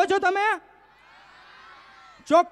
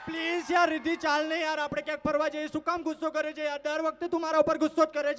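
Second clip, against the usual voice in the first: soft pleading; 5 dB quieter than usual. Acted. Acted boyfriend pleading.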